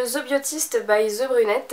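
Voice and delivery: brand name in a French-accented English, said slowly. Real, not acted. Vlogger reads an English nail polish name, French-accented English. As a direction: read the English name out with her own French accent, a touch slow. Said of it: "avec mon super accent".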